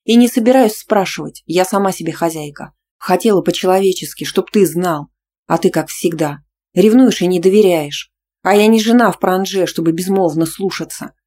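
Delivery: loud, indignant tirade; angry quarrel. Acted. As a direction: throw it at him, offended. Heroine shouts in quarrel.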